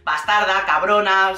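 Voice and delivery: low, mock-unhinged insult; a lightly imitated fiancé losing it. Retelling the fiancé insulting her, low and mock-furious.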